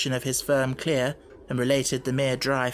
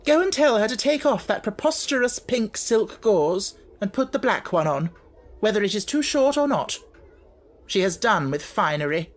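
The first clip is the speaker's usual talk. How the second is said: loud, higher and commanding; harsh order; 7 semitones higher, 3 dB louder than usual. Acted. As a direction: order it coldly.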